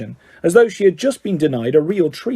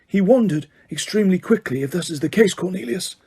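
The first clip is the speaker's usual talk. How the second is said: calm; 4 semitones higher than usual. A narrator's reading. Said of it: "said Dumbledore calmly".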